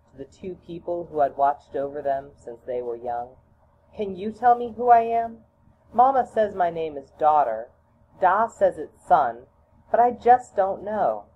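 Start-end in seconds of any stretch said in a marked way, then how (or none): 3.9-11.3 put-on high, louder childlike plea; pleading child. Child begs the two grandmothers to say who they are, high and loud. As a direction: ask anxiously like a small child.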